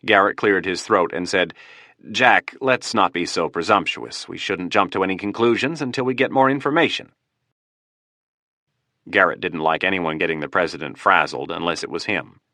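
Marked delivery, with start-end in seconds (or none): 2.1-7.1 forced politeness. Acted. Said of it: "In the most polite tone he could muster".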